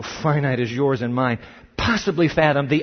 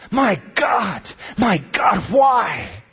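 a wail of forsaken despair, raised but not full force; anguished cry; 3 semitones higher, much slower than usual. Acted. Preacher voices Christ's cry.

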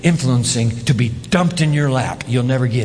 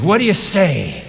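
louder call for response. Real, not acted. Preacher asking the congregation again, louder. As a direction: push the crowd to answer back louder. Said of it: "That's pretty weak".

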